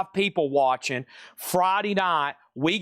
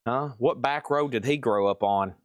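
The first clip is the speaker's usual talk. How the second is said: low-pitched mock disbelief of a new viewer; imagined baffled viewer; 5 semitones lower than usual. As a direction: imitate a bewildered onlooker, pitched down. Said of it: "Somebody going like".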